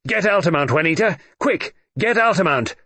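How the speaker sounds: high, loud yelled orders. A narrator's reading. Traitor yells to his accomplice to shoot Altamont, high and loud. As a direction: yell it at her to shoot. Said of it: "James Cleek yelled".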